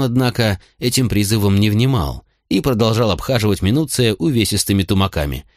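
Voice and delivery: usual speaking voice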